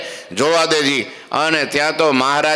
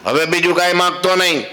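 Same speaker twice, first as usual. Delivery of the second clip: higher, sharp warning: હવે બીજું કાંઈ માગતો નહીં; stern housewife; 5 semitones higher than usual. Acted. Housewife warns the monk, higher and stern. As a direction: scold the guest, higher in pitch. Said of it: "કાંઈ ન માગું કે".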